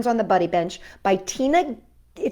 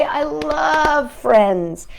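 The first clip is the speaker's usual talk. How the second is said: slow emphatic; 5 semitones higher, 4 dB louder, much slower than usual. Acted. Slowed emphatic.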